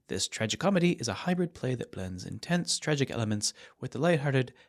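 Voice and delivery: playfully refined, projected announcement. Pretend. Announcing an evening with Shakespeare to listeners, mock refined. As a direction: put on a lightly refined reader's voice. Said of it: "I'm gonna try to sound refined".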